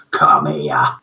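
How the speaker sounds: low, sinister whispered summons. Acted. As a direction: beckon the boy with a creepy whisper. Sinister teacher beckons.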